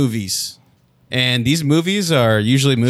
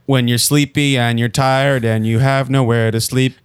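monotone. Shown as a demonstration. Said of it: "you're saying it in a monotone".

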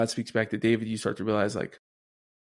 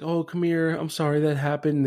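higher, cooing mock-mother comfort; coddling mother; 4 semitones higher than usual. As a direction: soothe a fallen child like a doting mom. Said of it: "A mother's love is very coddling".

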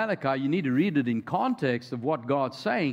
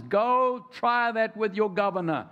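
higher, slower, pointed challenge; God's rebuke; 6 semitones higher than usual. Retold or imitated. God challenges Israel over their sacrifices, slow pointed rebuke. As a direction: dare them to try it, deliberately. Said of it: "And God says".

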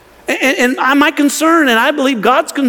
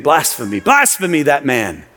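lower, scandalised mock outrage; indignant critic; 6 semitones lower than usual. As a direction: mimic a shocked objector, lower. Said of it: "there are many who are saying".

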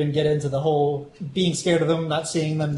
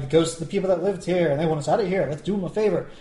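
mock-sweet sarcastic quote with lilting pitch; faster than usual. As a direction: imitate her sarcasm in a singsong lilt. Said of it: "she says it in kind of sarcastic tone".

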